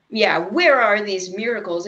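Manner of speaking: mock sarcastic challenge; a touch of scornful doubt; sarcastically demanding where the miracles are. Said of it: "didn't say it quite so sarcastically".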